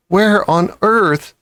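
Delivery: slow, high astonished asking; hardly believe your eyes; amazed question. A narrator's reading. Mother astonished by the chickens, slow high wonder.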